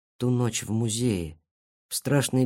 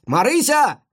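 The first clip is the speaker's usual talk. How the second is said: high, louder call across the yard; 11 semitones higher, 5 dB louder, slower than usual. Acted. Friend calls out for lost Marysya, higher and louder. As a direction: call her name again, higher and louder.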